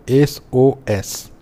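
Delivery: एसओएस slowed, letter by letter; slow pronunciation demo. Shown as a demonstration. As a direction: sound out each letter of एसओएस slowly. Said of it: "इसको जब बोलेंगे तो". (एसओएस, एक-एक अक्षर धीरे बोलकर)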